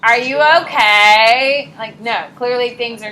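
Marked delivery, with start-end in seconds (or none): 0.0-1.7 awkward bystander. Retold or imitated. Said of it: "stand there and be like".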